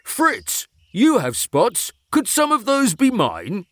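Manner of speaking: high, worried pleading question; anxious. Acted. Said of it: "he asked anxiously".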